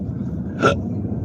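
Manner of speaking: sudden hiccup gasp; a sharp involuntary hiccup. Real, not acted. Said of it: "I'm all hiccuping".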